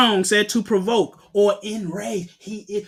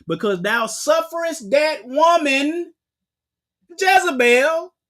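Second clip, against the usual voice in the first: higher, louder rebuke; stern voice of God; 5 semitones higher, 3 dB louder than usual. Acted. The Son of Yah rebuking the church, sternly. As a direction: call out the church like a judge.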